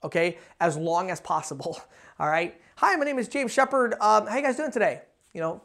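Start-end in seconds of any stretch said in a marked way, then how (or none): 2.8-5.0 like a customer. Shown as a demonstration. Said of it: "always sound like a customer".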